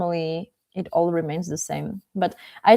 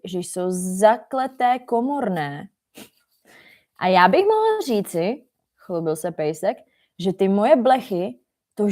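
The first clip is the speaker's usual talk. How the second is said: dramatic read-aloud with heavy word stress; exaggerated story reading. Shown as a demonstration. Teacher reads cat-and-dog story to language learners, exaggerated and dramatic. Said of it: "I'm kinda exaggerating the way how I read".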